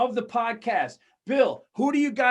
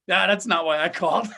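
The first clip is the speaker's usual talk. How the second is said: lower, brushing off the small talk; mock dismissal; 4 semitones lower, 4 dB louder than usual. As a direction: imitate a caller dropping the pretence. Acts caller dropping the pleasantries.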